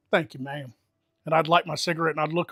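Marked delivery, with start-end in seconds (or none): 0.1-0.7 put-on polite Southern accent laid on thick; understated Southern gentleman, accent thickened. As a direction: thank her in a courteous Southern accent. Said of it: "I'd lay it on thick".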